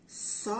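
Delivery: "Sol" drawn out, with the final L held as lll; blending the sounds. Shown as a demonstration. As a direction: stretch "Sol" slowly into a long consonant L. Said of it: "Vou juntar".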